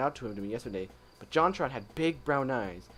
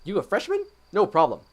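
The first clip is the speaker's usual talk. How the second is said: higher, lightly put-on helpful guy; JonTron voice; 5 semitones higher, 3 dB louder than usual. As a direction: lightly mimic an upbeat YouTuber. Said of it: "gotta get my JonTron voice on fleek".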